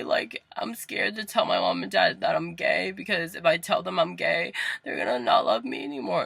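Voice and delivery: high, pleading tearful voice; mock tearful. Telling aunt the fear of parents' rejection, mock tearful. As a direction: act out a weepy confession. Re-enacts crying confession to aunt.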